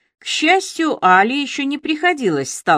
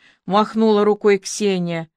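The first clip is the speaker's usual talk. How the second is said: ordinary delivery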